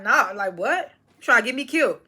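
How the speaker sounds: incredulous. Retold or imitated. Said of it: "I think he did say that".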